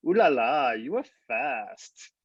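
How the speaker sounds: French lady. Retold or imitated. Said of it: "this French lady".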